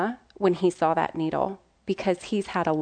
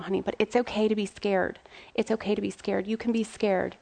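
gently comforting, a little softer; reassuring; 5 dB quieter than usual. Retold or imitated. Mom telling son fear is okay, reassuring. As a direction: soothe a frightened child.

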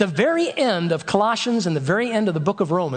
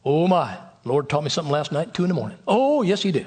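lightly voiced deep-voiced old southern preacher, a touch lower; a gentle hint of an old southern teacher's voice; Doctor Mark Cameron; 3 semitones lower than usual. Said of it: "he always would talk like this".

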